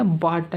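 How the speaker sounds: బాట్ with a long "aa" and silent "gh"; pronunciation demo. Shown as a demonstration. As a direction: show learners బాట్ as "baat". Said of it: "అని పలకాలి".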